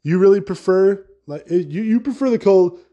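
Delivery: mock-furious rant at cold lovers; heated rant. Real, not acted. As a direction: tell them off, fed up.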